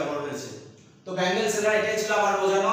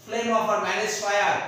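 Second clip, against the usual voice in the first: drawn out and a little louder; slow poem recitation; 2 semitones higher, 4 dB louder, much slower than usual. Shown as a demonstration. Teacher pointing out imagery to students, slow recitation. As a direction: read the phrase slowly, leaning in. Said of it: "এটাও কিন্তু imagery".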